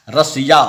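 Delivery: रसिया with the S made against the palate; palatal S. Shown as a demonstration. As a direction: say रसिया with the tongue helped by the palate. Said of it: "तालु की सहायता के साथ".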